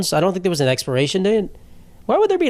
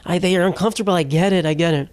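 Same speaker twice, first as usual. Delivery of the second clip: higher, overly sympathetic mock ally voice; fawning, pitched-up parody of a guy who gets it; mock performative ally; 5 semitones higher than usual. Guy mocking male feminists with a pitched-up, fawning voice. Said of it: "They're like".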